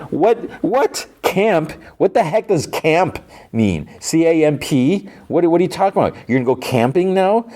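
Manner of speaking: high-pitched, incredulous questioning; exaggerated bafflement. Viewer reacting to the word camp, hammed-up bafflement. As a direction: act out total confusion at a strange word, high.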